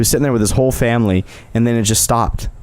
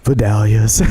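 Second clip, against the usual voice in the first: defeated sigh; 2 semitones lower, slower than usual. Retold or imitated. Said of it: "he, like, sighs, like, this is defeated".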